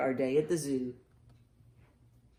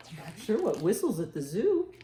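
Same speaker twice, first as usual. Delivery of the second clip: plain reading voice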